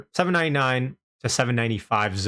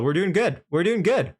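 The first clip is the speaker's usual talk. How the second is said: excited; 6 semitones higher than usual. Real, not acted. Price rising on stream.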